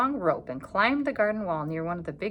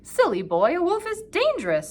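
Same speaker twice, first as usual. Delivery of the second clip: louder, higher stern warning; warning grandfather; 10 semitones higher, 6 dB louder than usual. A narrator's reading. Grandfather warning Peter, stern and raised. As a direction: caution the boy sharply. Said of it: "said Grandfather".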